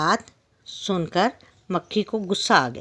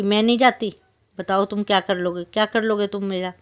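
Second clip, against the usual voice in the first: stubborn fly. Acted. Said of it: "मचल गई और उसने फिर जिद की".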